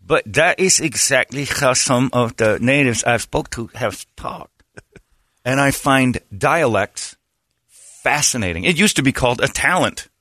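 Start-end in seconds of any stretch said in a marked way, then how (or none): 0.0-4.6 imitated Native American speech; Native American accent. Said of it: "you do the Native American voice".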